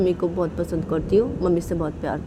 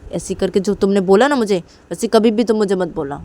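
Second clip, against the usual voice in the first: earnest insistence; 5 dB louder than usual. Acted. Insisting on her love.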